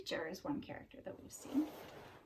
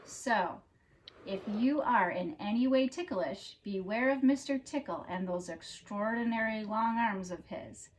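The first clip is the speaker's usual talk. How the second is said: animated read-aloud with drawn-out key words; storybook narration; 9 dB louder than usual. A narrator's reading. Reader telling children about Mister Tickle, storybook narration. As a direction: read it like a picture book for children.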